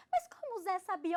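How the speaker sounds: high, loud, incredulous quote; amazed questioning. Retold or imitated. Partner astonished at the story, high and loud.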